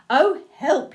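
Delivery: lightly acted panic; storybook alarm. A narrator's reading. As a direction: exclaim with mock fright for children. Fox alarmed at seeing Gruffalo.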